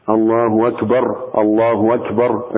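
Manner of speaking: الله أكبر said slowly with the u of الله stretched toward a waw; added waw. Shown as a demonstration. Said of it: "وألا يزيد واوا". (الله أكبر ببطء مع إشباع الضمة حتى تصير واوا)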